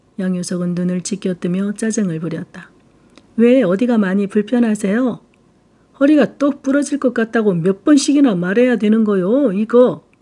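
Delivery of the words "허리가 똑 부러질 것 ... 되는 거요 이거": put-on Jeolla-accented shout, higher pitch. An annoyed patient lying face down answers the nurse officer, shouting in a Jeolla accent. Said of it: "전라도 억양으로 소리를 지르고".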